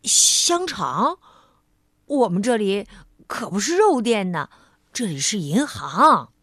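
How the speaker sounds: a touch of shocked correction; surprised. Acted. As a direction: banker puts the muddled customer right, a little taken aback. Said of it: "银行经理吃惊地说".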